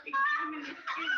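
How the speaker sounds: very high, loud shout through a laugh; sudden mock shout. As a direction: blast the line at the crowd. Mock slam poem, shouted.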